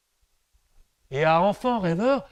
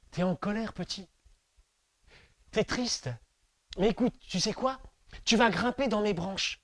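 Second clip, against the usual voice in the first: soft tree voice; 4 dB quieter than usual. Acted. Tree comforts child softly.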